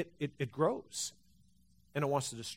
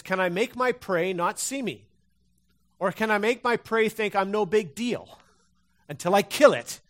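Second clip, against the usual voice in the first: stalking cat; 4 semitones higher, 5 dB louder than usual. Retold or imitated. Voicing the stalking cat's thoughts.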